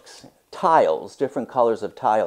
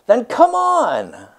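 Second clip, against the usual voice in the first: much higher, slow, coaxing invitation; inviting artist; 13 semitones higher, 7 dB louder, slower than usual. Acted. The muralist invites Myra to paint with him, high slow invitation. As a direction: draw her in warmly and slowly.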